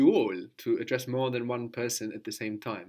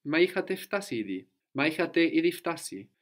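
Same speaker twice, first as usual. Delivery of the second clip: quick, raised-pitch exclamation; exclamatory; 6 semitones higher, faster than usual. Shown as a demonstration. Teacher modelling the more common Greek word, exclamatory. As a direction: exclaim it briskly and higher. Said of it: "when it's kind of exclamatory".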